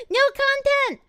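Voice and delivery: squealed through a laugh; real giggling squeal; laughing high. Real, not acted. Laughing at no content.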